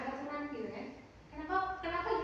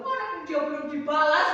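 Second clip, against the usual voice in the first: put-on resentful child; 13 dB louder than usual. Resentful child wanting revenge.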